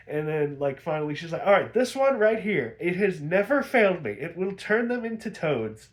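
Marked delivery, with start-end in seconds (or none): 1.5-5.9 higher, louder lightly voiced witch, sure of herself; a hint of a witch who never fails; witch aunt bragging. Witch aunt swears this potion never fails, higher and smug.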